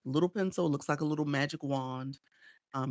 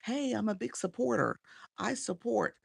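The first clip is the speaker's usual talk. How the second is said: eager self-promoter; 6 semitones higher than usual. Retold or imitated. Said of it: "those people who come in your live and say".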